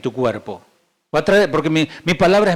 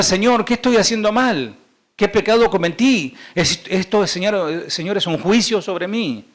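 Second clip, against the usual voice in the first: higher-pitched, lightly acted pleading; questioning believer; 4 semitones higher than usual. Believer asking the Lord about suffering, lightly acted questioning. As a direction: plead with God, mildly dramatized. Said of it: "A veces podés preguntar".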